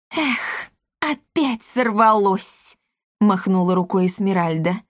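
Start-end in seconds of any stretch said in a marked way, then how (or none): 0.1-2.8 disappointed. A narrator's reading. Mother gives up.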